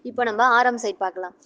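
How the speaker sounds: ordinary delivery, nothing marked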